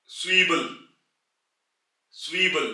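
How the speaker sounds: स्वीबल with a ts start; German word demo. Shown as a demonstration. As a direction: say स्वीबल carefully. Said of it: "इसी तरह set से". (स्वीबल का German उच्चारण)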